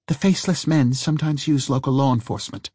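sharp, irritated retort; snapping. Acted. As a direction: snap it back impatiently. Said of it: "she snapped".

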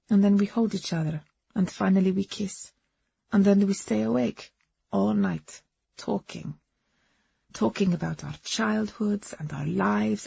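put-on lightly accented woman recounting her love story; foreign-accented Agnes. Woman confiding her romance to a companion, earnest accented voice.

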